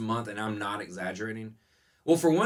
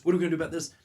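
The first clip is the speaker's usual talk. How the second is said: louder and higher, mock frantic; hammed-up frantic question; mock panic; 7 semitones higher, 6 dB louder, much faster than usual. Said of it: "every day was like".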